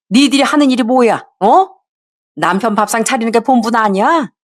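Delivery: a hint of a sharp mother-in-law brushing off her son.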